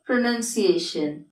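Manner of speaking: "പ്രൊനൗൺസിയേഷൻ" with a short NUN second syllable; correct pronunciation. Shown as a demonstration. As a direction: say "പ്രൊനൗൺസിയേഷൻ" slowly as pro-nun-see-AY-shun. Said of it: "correct എങ്ങനെയാണ്?". ("പ്രൊനൗൺസിയേഷൻ" ശരിയായ ഉച്ചാരണത്തിൽ, "നൻ" എന്ന് പതുക്കെ)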